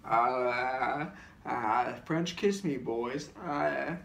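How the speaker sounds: slow, moaned and drawn-out come-on. Retold or imitated. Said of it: "And he starts going".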